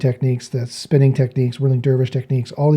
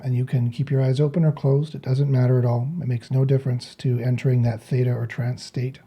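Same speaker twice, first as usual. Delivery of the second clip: softer, calm instructing voice; guided meditation; 7 dB quieter than usual. Real, not acted. Meditation teacher guiding listeners to breathe out, softly guiding. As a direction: talk them gently into breathing.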